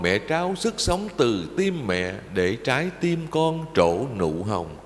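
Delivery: poem recitation. Acted. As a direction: intone each line like a prayer to mother. Recites verse on parents.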